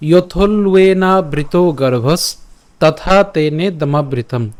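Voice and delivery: slow measured Sanskrit chant; slow recitation. Shown as a demonstration. Teacher reciting verse slowly to students. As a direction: recite each word slowly and clearly. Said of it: "আজকের শ্লোকটি হলো".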